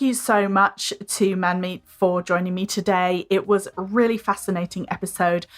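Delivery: measured, presenterly sign-off read; podcast outro. Acted. Host thanking listeners and asking for reviews, scripted outro.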